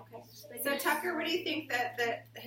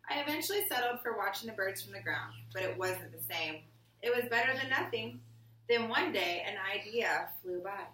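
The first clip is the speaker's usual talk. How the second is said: put-on reading to children. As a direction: read it to the class like a picture book. Reading picture book aloud.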